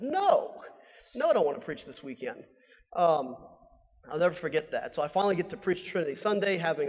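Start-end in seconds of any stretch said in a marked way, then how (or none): 0.0-2.4 alarmed refusal. Retold or imitated. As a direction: balk at the idea, pitch leaping up. Acted refusal to preach on short notice.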